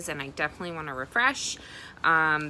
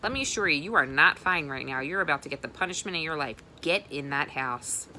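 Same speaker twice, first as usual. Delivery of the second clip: firm angry warning; father threatening his son with punishment; stern father. Acted. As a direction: lay down the law. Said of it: "said Reeve's father".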